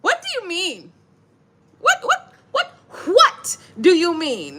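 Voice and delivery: high disbelieving what, laughing through it; incredulous laughing quote. Retold or imitated. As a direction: act baffled and amused. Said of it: "I was like".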